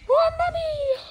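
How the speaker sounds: astonished. Acted. Son astonished at prices.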